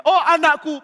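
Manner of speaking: high, loud gushing call; overdone fatherly cry; feigned affection. Acted. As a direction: gush over a son, insincerely. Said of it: "Mulutnya begitu pura-pura".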